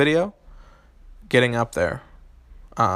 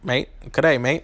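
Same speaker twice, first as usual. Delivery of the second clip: light attempt at an Australian accent. Shown as a demonstration. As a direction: try out a lightly put-on Aussie accent. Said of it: "that's my Australian accent".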